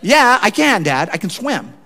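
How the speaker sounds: put-on a little boy insisting to his doubting dad; indignant child. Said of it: "indignant at me".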